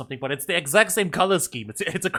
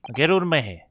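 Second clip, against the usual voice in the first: put-on Scottish accent; 3 dB louder, faster than usual. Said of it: "it's definitely Scottish".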